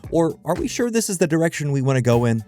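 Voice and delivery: ordinary delivery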